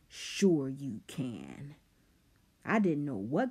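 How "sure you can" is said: sneering. Acted. Rob mocking Simon.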